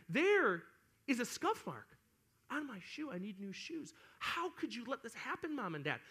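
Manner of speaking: hammed-up whiny distress; melodramatic spoiled kid. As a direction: wail over a tiny tragedy like a spoiled child. Spoiled child lamenting scuffed shoes.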